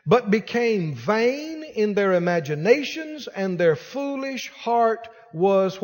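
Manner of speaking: slow, solemn Bible reading; measured pulpit reading; scripture reading. Acted. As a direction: read it out like sacred text. Reads Romans scripture.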